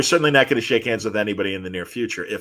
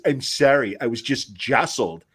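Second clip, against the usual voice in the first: nerd voice; 3 dB quieter than usual. Retold or imitated. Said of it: "in this awesome quintessential nerd voice".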